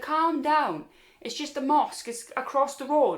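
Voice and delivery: retold exasperated friend. Friend answering panic, retold.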